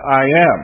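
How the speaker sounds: "I am" punched loud; emphatic. Shown as a demonstration. Preacher naming the statement for the congregation, emphatic. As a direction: land firmly on "I am". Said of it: "which is an emphatic".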